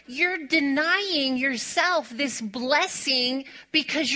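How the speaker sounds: the husband's words, laughed out; laughing retold lecture. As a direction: relay his scolding while you can't stop laughing. Quoting husband while laughing.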